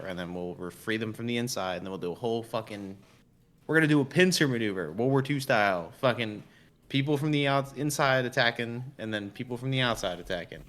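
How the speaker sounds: rousing speech. Pretend. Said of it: "just be like".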